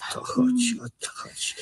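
hushed urgent whisper; conspiratorial whisper. Acted. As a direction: whisper it so nobody overhears. Conspiring lovers fear discovery.

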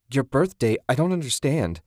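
incredulous. A narrator's reading. Confused alarm.

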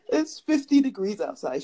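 flat robotic assistant voice; imitating Siri. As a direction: mimic the phone assistant. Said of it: "She's cold".

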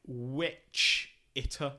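slow, separated "witch ... itter"; syllable-by-syllable pronunciation. Shown as a demonstration. Sounding out a spelling for a co-host, "witch itter" drawn out slowly. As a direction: say "witch itter" slowly in two parts, witch, then itter. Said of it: "W I C H I T A, like".

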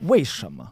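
wei shema with a falling tone; tone demo. Shown as a demonstration. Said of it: "What tone?".

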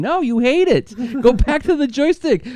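high, pushy ad pitchman; pushy salesman voice. Pretend. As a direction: needle them like a cheesy salesman. Mocking the old ad's pitch.

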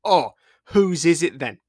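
captain's voice full of feeling; emotional captain. Acted. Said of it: "his voice full of emotions".

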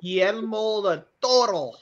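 slow, hammed-up Spanish accent. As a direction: roll the name like a Spanish speaker. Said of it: "That's just doing a Spanish accent".

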